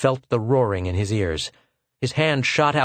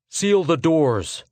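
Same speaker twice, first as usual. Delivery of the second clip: slow, higher officer's order; slow command; 7 semitones higher, much slower than usual. Acted. Lieutenant ordering doors sealed, slow firm command. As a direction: draw out the command.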